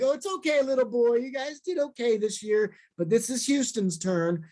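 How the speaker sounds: lightly voiced, talking down to a little boy; patronising fan. A tall Houston fan consoling the speaker, mildly patronising. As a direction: pat him on the head with the words. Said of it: "almost like he wanted to rub my head".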